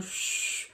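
itchy hiss sound. Retold or imitated. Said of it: "my head started just going".

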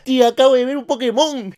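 grito agudo imitando a un primito; grito de niño. Retold or imitated. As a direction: grita como un niño chismoso desde el techo. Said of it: "empieza a gritar". (imitación aguda y fuerte de un niño gritando)

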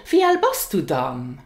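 relaxed, friendly ask with "dann" added; casual question with dann. Shown as a demonstration. Teacher showing learners a casual question. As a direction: ease into "Wie alt bist du dann?". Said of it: "it sounds more casual".

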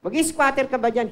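mock-angry challenge to a trespasser; imitating the angry squatter neighbor; retold angry yell. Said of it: "galit na galit".

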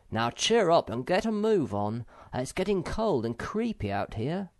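jolly a sad friend along; Moomintroll. A narrator's reading. Moomintroll tells Sniff to move on, encouragingly. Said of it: "said Moomintroll comfortingly".

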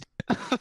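put-on short old-woman cackle; a brief knowing witch cackle. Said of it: "Madam Ava cackles".

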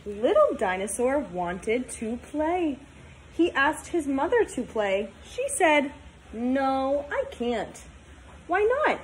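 put-on storybook read-aloud for kids; reading to children. Teacher reading a picture book to her class, storytime voice.

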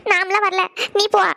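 tearful refusal; crying. Acted. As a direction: sob and send sister away. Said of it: "எதுக்கிட்டே அழுதுட்டே இருக்க". (அழுதபடி மறுத்தல்)

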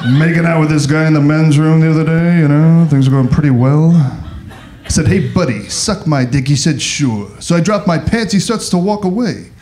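stand-up character impression with jittery interjections; Rodney Dangerfield. Comic greets Austin in his favorite character, impression. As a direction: toss out one-liners as a borrowed comic persona. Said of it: "This is gay Rodney Dangerfield".

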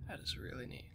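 soft whispered awe; hushed admiring whisper to yourself. Real, not acted. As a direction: breathe it out, barely voiced. Admiring scenery while playing.

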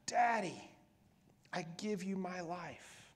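whispered surrender. Acted. Jesus' last words to father.

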